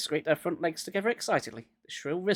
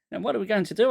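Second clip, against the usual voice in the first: desperate cry; 6 semitones higher, 3 dB louder, faster than usual. A narrator's reading. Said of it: "I cried".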